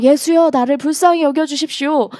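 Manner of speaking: mildly acted desperate appeal; pleading call. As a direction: keep calling out to be noticed. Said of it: "끊임없이 외치기 시작했습니다".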